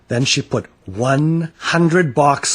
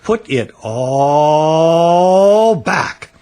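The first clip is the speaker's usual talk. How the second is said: slow, louder firm order; stern father; 5 semitones higher, 6 dB louder, much slower than usual. A narrator's reading. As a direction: lay down the law.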